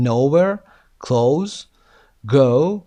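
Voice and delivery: Nowhere, close, go with a rounded "oh"; "oh" sound. Shown as a demonstration. Teacher models the phone sound, rounded "oh" in Nowhere, close, go. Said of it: "اینها صدای او دارن".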